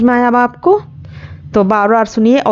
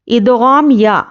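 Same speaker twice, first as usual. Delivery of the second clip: slow, drawn-out tajweed recitation; Quranic recitation; much slower than usual. Shown as a demonstration. Teacher recites idgham examples for students, slow tajweed. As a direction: chant each example with measured pauses.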